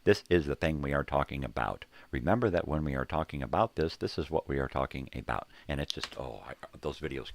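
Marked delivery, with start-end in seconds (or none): 0.0-5.5 louder, even mock computer voice; flat-ish mock robot read; robot narrator. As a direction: imitate a text-to-speech bot, lightly. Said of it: "have the computer talk for them".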